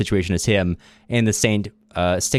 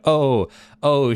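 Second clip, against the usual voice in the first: mock groan; 6 semitones higher than usual. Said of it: "she groans".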